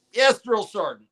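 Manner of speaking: high, eager recruit answer; barked military recruit reply. Retold or imitated. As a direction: answer like a private at attention. Recruit answers drill sergeant.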